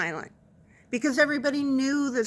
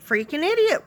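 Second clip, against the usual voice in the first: silent look voiced as words; 7 semitones higher than usual. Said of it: "you could see he's going".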